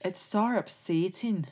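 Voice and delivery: soft attempt at a Newcastle accent; imitated Newcastle accent. Working out how Jade said it, imitated Geordie accent. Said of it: "how did she say it".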